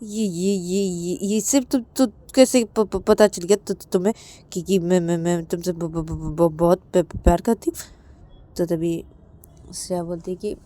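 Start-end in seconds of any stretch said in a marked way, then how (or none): 0.0-7.8 shy stuttering confession. Acted. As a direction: stumble into saying I love you. (शर्माती हकलाती इकरार)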